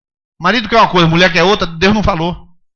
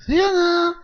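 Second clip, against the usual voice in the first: high, softer mock preacher question; imitating Edir Macedo; 12 semitones higher, 4 dB quieter, slower than usual. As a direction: tease a famous preacher's style. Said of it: "Que fala assim".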